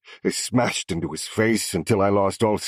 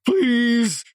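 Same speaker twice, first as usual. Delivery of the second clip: raspy cry; 7 dB louder than usual. A narrator's reading. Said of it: "His scream whooshed out in a raspy cry".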